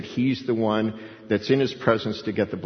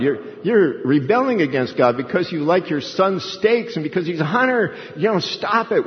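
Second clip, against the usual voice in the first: higher, mildly exasperated wife; scolding Rebecca; 5 semitones higher than usual. Acted. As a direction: act out a wife telling off her husband. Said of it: "Rebecca is the muscles of the neck saying".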